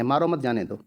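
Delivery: "मारो मत जाने दो" in one unbroken low phrase; no pause. Shown as a demonstration. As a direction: say "मारो मत जाने दो" without stopping anywhere. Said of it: "आपको अटकना नहीं है".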